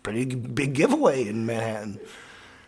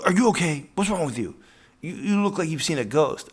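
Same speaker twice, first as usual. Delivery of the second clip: worried bartender; 6 semitones higher, 6 dB louder than usual. Retold or imitated.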